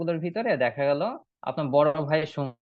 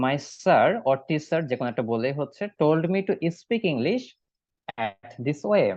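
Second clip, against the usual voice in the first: slow model reading; slower than usual. Shown as a demonstration. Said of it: "আনসারটা দিবেন সেটাও আমি শিখাই দিচ্ছি".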